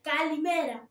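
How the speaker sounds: lightly voiced eager friend; Hatzigavatis voice. Shown as a demonstration. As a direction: greet him like the fussy puppet friend. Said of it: "Και η φωνή". (ελαφριά φωνή Χατζηγαβάτη)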